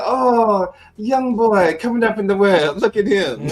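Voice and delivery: mock old lady. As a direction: play the amused older lady, high and bright-voiced. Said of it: "And she said".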